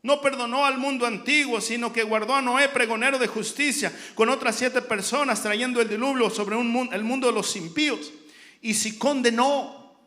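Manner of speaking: loud, driving sermon delivery; full-force preaching. Real, not acted. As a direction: preach it out hard, phrase on phrase.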